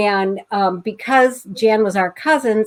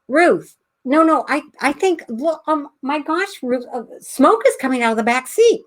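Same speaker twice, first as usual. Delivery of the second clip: alarmed passenger; 4 semitones higher than usual. Retold or imitated. Alarmed passenger acted in story.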